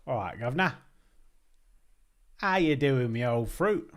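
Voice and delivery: hammed-up Cockney hello; mock Cockney. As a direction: play a cheeky London geezer. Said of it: "How'd you say governor?".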